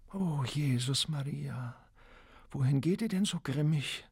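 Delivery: terrified pleading wail; horrified wail. A narrator's reading. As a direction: cry out in alarm to her husband. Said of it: "jammerte Lola entsetzt".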